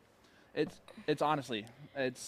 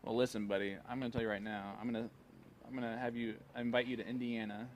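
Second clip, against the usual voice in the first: playfully secretive; 8 dB quieter than usual. Pretend. Host plotting a tournament with a young player, softly secretive. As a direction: keep it down, as if others are listening. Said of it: "talking so softly like this is a secret".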